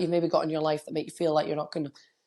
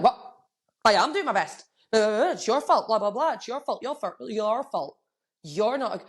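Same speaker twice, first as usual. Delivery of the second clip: higher, indignant, blaming; mock triggered whine; 4 semitones higher than usual. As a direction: play the defensive blamer, half-hearted. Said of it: "If you are triggered".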